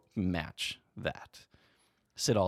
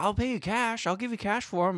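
much higher, louder mock voice of an eager stranger; eager fisherman voice; 4 dB louder than usual. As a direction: squeak it out like a hopeful guy begging for bait. Fisherman offering cash for bait.

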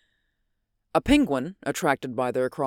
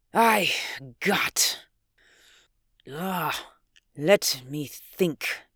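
hushed pondering; much slower than usual. Acted. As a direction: drop to a hush, thinking aloud. Scientist stops himself, pondering.

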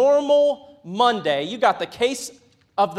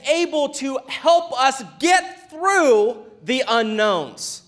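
full-force preaching; 3 semitones higher than usual. Acted. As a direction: preach it to the back row.

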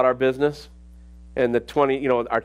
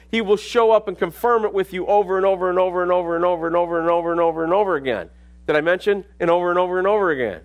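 building repetition; 2 semitones higher, faster than usual. Real, not acted.

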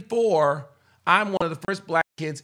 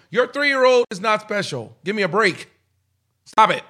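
loud rant; 2 semitones higher, 6 dB louder than usual. Real, not acted. Ranting at parents.

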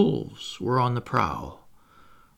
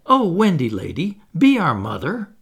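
pleading cry; 3 semitones higher, 4 dB louder than usual. Acted.

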